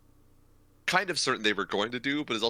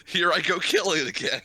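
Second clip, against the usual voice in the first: higher, louder hammed-up killer line; mock villain; 8 semitones higher, 4 dB louder than usual. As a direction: ham it up as a gleeful murderer.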